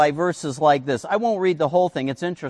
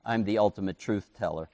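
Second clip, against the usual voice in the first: God swearing solemnly; 7 semitones lower, 10 dB quieter than usual. Retold or imitated. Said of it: "He says".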